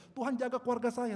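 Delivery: loud, high-pitched retold prayer; urgent plea. (doa memohon dengan suara lantang)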